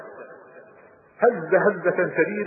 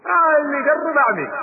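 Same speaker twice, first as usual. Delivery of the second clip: threat; 11 semitones higher, 4 dB louder than usual. Retold or imitated. Threatening the attackers.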